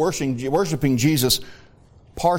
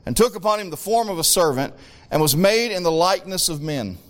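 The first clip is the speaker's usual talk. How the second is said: raised pulpit reading; declaimed Bible verse; scripture reading; 5 semitones higher than usual. Real, not acted. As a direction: read the verse out to the congregation, stressing key words. Reads scripture aloud.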